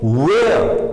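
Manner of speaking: वेयर as "weh-uh" with no r; वेयर with rounded lips and the r dropped; non-rhotic where. Shown as a demonstration. Teacher modelling where without the r. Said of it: "हम बोलेंगे".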